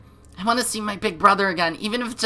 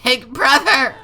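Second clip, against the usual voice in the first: calling for help; 6 semitones higher, 7 dB louder, slower than usual. Acted. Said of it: "My strange scream".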